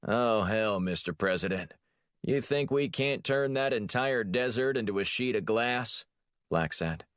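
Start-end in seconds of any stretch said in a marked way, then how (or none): 0.0-6.0 a touch of a blustering Texas president; mild Texas accent, mimicking his boss. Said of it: "conjured up a good Texas accent".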